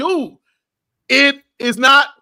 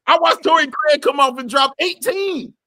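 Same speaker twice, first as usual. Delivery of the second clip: heated rant; 3 semitones higher, 3 dB louder than usual. Real, not acted. Ranting, louder.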